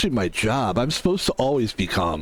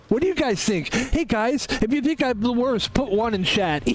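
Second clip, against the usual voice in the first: high-pitched mock-perky character voice; put-on streamer personality; 9 semitones higher than usual. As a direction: pitch it way up and play to the chat. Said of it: "I'm working on a personality".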